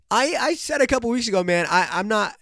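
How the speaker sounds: real voice crack mid-protest. Real, not acted. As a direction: let the voice crack while defending yourself. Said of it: "Did my voice just crack?".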